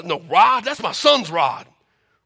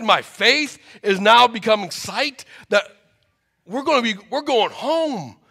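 overjoyed mother; 4 semitones higher than usual. Acted. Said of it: "mother reacts to son".

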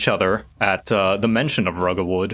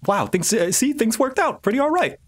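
high-voiced, hopeful underling; tentative little henchman voice, climbing high; Cyril; 11 semitones higher than usual. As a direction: pitch it up, relieved things worked out. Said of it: "as if to go like".

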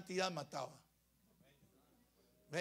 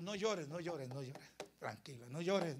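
gently acted comfort, lowered voice; soothing; 2 semitones lower than usual. Jesus telling the widow not to cry, soothing. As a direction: hush a grieving mother gently.

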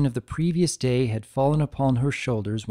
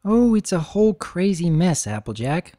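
mild groan; 5 semitones higher, 4 dB louder than usual. Acted. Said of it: "Twilight groaned".

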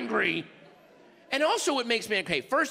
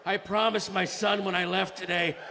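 dramatic victim. Pretend. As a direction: play a mock stabbing victim pitching timeshares. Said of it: "I should hear, like".

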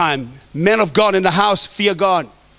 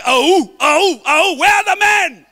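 mock women's call; 5 semitones higher, slower than usual. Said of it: "I wanna hear you say".

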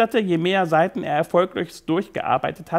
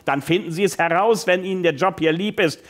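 blustering. Acted. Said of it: "polterte Taylor seine Assistentin an".

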